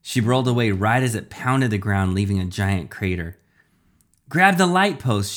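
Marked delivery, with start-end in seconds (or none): 4.3-5.3 high, loud urgent order; yelled. A narrator's reading. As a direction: call out a warning in mid-fight. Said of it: "she yelled".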